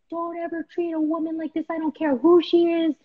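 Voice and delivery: high, indignant telling-off; retold angry scolding. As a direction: re-enact confronting an abuser. Acted quarrel, speaker scolds husband.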